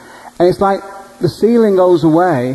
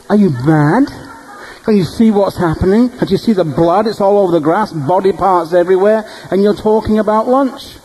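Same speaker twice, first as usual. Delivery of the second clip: incredulous; 5 semitones higher than usual. Retold or imitated. Incredulous at the waiter.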